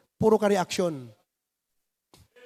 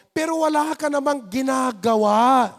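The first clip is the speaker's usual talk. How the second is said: raised preaching rebuke; scolding shout. Real, not acted. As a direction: pastor rebuking idle members.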